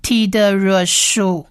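slow "T的热树" as tee-duh-ruh-shoo; teacher modelling "T的热树" slowly; syllable blending demo. Shown as a demonstration. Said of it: "所以是树".

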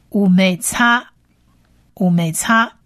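"乌妹擦" slowly sounded out, "擦" ending on a long a; long final a. Shown as a demonstration. Teacher putting the letters together for learners, long final a. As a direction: model "乌妹擦" syllable by syllable, holding the a of "擦". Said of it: "是长母音啊".

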